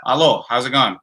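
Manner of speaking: a light put-on British accent; a hint of a British accent to the British guest. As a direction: greet him in a mild British accent. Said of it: "how was my British accent just then?".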